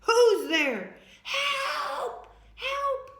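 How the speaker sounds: loud, high shouts; calling out loudly. Acted. Girl shouts back to a stranger above. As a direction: yell up the hill for help.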